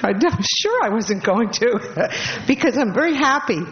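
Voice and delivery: laughing through real tears; happy tears. Real, not acted. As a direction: break into little laughs while tearful. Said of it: "I'm crying this much".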